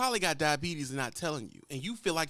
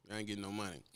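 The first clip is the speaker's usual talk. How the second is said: driver; 9 semitones lower, 8 dB quieter, much faster than usual. Retold or imitated. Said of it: "That's how he's saying".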